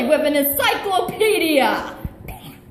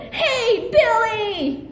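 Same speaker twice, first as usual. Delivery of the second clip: calling out; 5 semitones higher, much slower than usual. Acted. Calling out to Billy.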